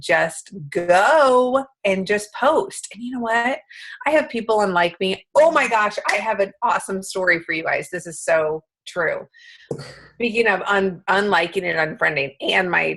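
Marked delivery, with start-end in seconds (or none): 5.3-7.9 excited. Real, not acted. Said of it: "I'm really excited telling this story".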